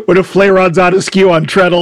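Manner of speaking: put-on broad Yorkshire accent; North Country accent. Host mimicking old Shakespearean speech as North Country accent. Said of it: "more like today's North Country".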